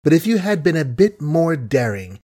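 honeyed voice hiding contempt; sweet as honey yet cutting; suave sweetness. Acted. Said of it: "Suave, gentle, sweet as honey was the speech".

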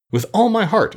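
high eager exclamation; exclaiming. A narrator's reading. Jack eagerly accepts the king's friendship, exclaiming high. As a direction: answer with a burst of feeling. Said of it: "exclaimed Jack".

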